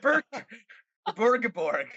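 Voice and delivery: a hint of the Swedish Chef; Swedish Chef imitation. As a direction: bork like the Muppet chef. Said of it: "like the Swedish chef from Muppets".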